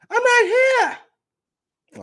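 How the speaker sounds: put-on high squeaky New Zealand accent; mock Jay White in a New Zealand accent. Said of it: "that was your New Zealand accent?".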